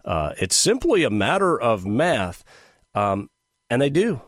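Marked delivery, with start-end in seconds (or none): 0.4-2.5 sarcastic quote with swooping pitch; mock the claim as you repeat it; exaggerated, sceptical lilt. Real, not acted. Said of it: "hear the sarcasm in my voice".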